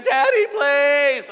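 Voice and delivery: put-on high, loud, drawn-out child's plea; begging kid. Kids begging dad to stop, loud drawn-out plea. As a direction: beg like a desperate kid.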